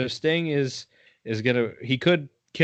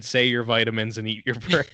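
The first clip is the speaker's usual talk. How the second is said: laughing misquote. Retold or imitated. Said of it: "I said".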